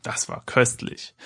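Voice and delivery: slow, hushed fake "delicious"; mock relish after a pretend drink; fake satisfaction. A narrator's reading. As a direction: lie that it tasted great, drawn out. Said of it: "log er dem etwas enttäuschten Kaufmann".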